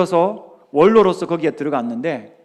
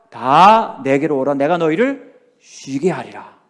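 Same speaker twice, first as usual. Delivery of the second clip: solemn Jesus quote; 4 semitones lower, slower than usual. Retold or imitated.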